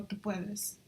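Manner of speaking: Spanish accent. Real, not acted. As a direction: correct yourself to Spanish-accented Tu Puedes. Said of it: "I totally said that with a gringo".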